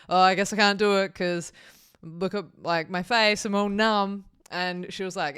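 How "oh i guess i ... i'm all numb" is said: whiny complaint. Retold or imitated. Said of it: "I was like".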